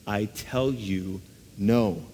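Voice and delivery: slow, firm "I tell you", weight on "tell", then a short "no"; emphatic. Retold or imitated. Jesus answering the crowd's question, slow and emphatic. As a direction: land "tell" heavily and slowly, then a firm "no". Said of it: "Jesus is emphatic".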